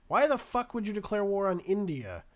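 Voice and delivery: loud, incredulous outburst; exasperated yell. Real, not acted. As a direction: yell at the dumb AI in disbelief. Shocked at ally's baffling move.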